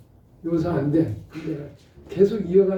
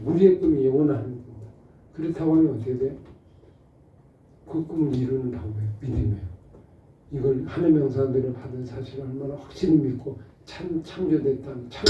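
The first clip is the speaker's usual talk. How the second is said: usual speaking voice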